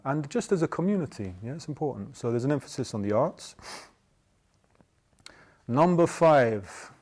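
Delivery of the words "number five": put-on slow, weighty announcement like an Old Testament prophet; solemn proclamation. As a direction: announce it slowly and gravely. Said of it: "I feel like the Old Testament".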